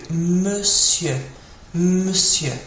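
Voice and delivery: "monsieur" said slowly as muh-syuh; careful pronunciation. Shown as a demonstration. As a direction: sound out "monsieur" in two clear syllables. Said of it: "can be tricky to pronounce".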